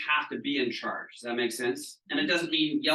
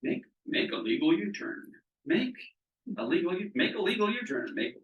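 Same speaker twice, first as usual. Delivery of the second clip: GPS voice; 5 semitones higher than usual. Retold or imitated. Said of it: "the G P S starts saying".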